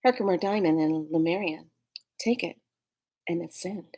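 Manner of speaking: mock commercial. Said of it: "That was my first commercial".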